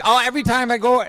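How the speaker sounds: high mock whine, near shouting; mocking whiny voice. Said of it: "They're like".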